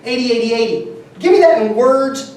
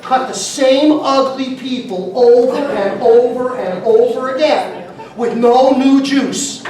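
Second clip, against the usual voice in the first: mock disdain; 2 semitones higher, 4 dB louder, slower than usual. Mocking stuck-in-a-rut barbers.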